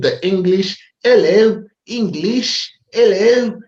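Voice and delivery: clumsy attempt at an Australian accent; mock Australian accent. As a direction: play at an Australian accent, half-joking. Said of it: "if I'm still doing an Australian accent".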